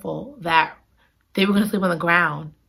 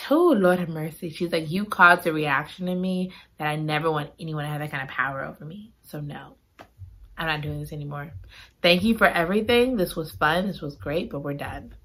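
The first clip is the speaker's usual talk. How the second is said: mild tearful quiet; 5 semitones lower, 6 dB quieter than usual. Retold or imitated. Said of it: "Chloe is crying at first".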